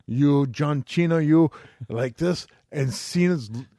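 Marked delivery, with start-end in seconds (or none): 0.1-1.5 Cena said as "CHEE-na" in a mock promo; imitated promo. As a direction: mimic the promo, Cena starting with CH. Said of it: "they showed that clip of that promo".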